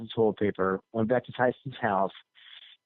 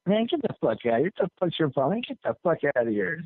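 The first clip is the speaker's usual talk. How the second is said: mildly heated, higher-pitched brush-off; mock indignation; 5 semitones higher than usual. Tyson's man dismisses the prankster, mock indignant. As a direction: lightly imitate an annoyed man sending someone away.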